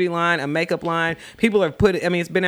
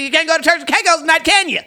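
teasing; 10 semitones higher, 5 dB louder than usual. Real, not acted. Teasing a friend.

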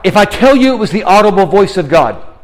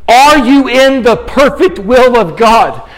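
slow, ringing pulpit questions; fervent, drawn-out preacher's appeal; impassioned preaching challenge; 4 semitones higher, slower than usual. Real, not acted. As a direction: press each question on the congregation, stretching the words.

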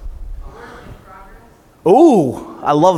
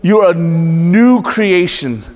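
louder; much slower than usual. Shown as a demonstration.

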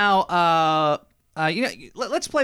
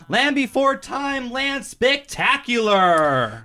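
announcer voice; 2 semitones higher than usual. Pretend. Mock grand opening announcement.

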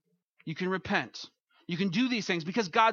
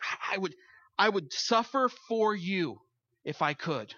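mean every word of it; heartfelt offer. Retold or imitated. Someone close to the sufferer, meaning it sincerely. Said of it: "when it hits close enough to home".

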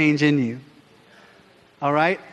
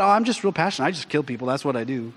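flippant Paul; 3 dB quieter, faster than usual. Retold or imitated. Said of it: "What if Paul just said".

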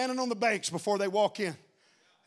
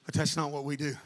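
much softer, lower sermon voice; hushed preaching; 6 semitones lower, 8 dB quieter than usual. Acted. Preacher quietly drawing the congregation in. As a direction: drop the voice low and intimate.

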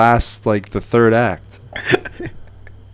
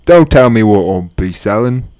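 put-on Australian accent; 5 dB louder than usual. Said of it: "Do your black Australian voice".

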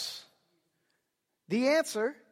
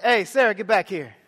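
calling out; 3 semitones lower, 4 dB louder than usual. Retold or imitated. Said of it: "So I'm like".

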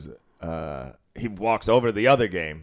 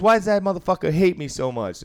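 higher and louder with hammed-up self-pity; mock aggrieved gambler; 9 semitones higher, 5 dB louder than usual. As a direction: whine it like a wounded tough guy. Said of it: "he goes".

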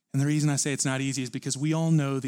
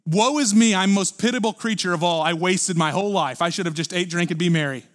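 lament; 3 semitones higher, 3 dB louder than usual. Retold or imitated. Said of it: "He said".

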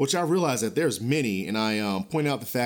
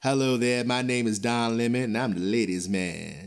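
ladies' man voice. Pretend. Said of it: "gonna start talking like ladies' man".

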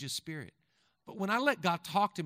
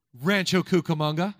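calling out; 11 dB louder than usual. Acted. Pastor calling out the town name to the crowd, loud.

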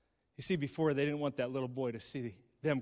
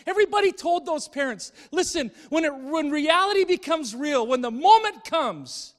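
higher and louder, slowing as it peaks; preaching build; 12 semitones higher, 10 dB louder than usual. Acted. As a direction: drive it home from the pulpit.

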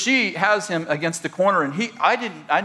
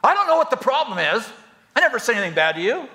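high, quick defensive protest; 5 semitones higher, faster than usual. Retold or imitated. Pastor imitates a defensive spouse, high and quick. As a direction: sound innocent and put out. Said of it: "With your tone of voice".

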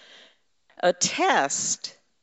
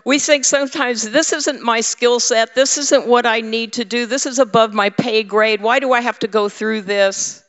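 complaining; 4 semitones higher, 3 dB louder than usual. Retold or imitated. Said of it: "we say".

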